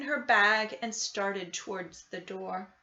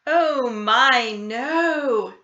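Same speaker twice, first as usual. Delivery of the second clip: kind; 2 semitones higher, 9 dB louder, much slower than usual. A narrator's reading. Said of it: "replied the kind old woman".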